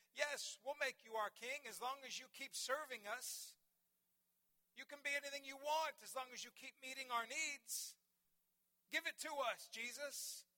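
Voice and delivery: insistent, rising pitch as the demands build; acted demanding crowd. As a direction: play a crowd pressing its demands.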